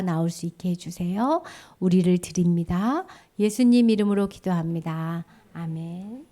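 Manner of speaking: measured, earnest prayer voice; leading prayer. Real, not acted. Teacher prays with children after the sermon, earnest prayer.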